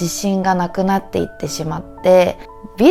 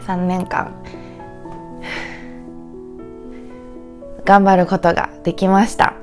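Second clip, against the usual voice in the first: tearful; 3 semitones lower, faster than usual. Real, not acted. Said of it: "sorry for crying".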